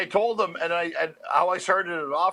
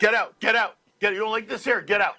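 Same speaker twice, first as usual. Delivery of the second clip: angry dad; 3 semitones higher, faster than usual. Retold or imitated. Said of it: "Do your dad".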